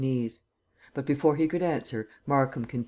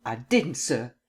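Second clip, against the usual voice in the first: words bursting out; slower than usual. Acted. Captain blurting his denial to the prosecutor, mildly forceful. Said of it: "The words burst from his lips".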